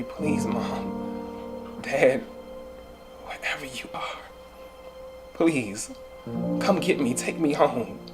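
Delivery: quiet, halting plea; recalled prayer. Acted. Foster son recalling prayers to his parents, softly pleading. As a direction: pray softly, pausing between phrases. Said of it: "Times I used to pray".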